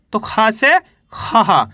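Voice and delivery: खा से खी slowly, long ee in खी; slow demo. Shown as a demonstration. Teacher slowly showing students खा becoming खी. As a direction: spell it out for pupils. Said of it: "आहा की मात्रा है".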